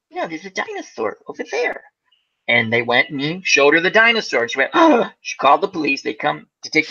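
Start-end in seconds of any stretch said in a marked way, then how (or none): 0.1-1.8 put-on higher, pleading kid voice; insistent kid. Little boy insisting to his mom about the dinosaur, pleading. 4.7-5.1 sharp gasp then a high oh; shocked gasp. Retold or imitated. Mom spotting the alligator in the yard, gasping in shock.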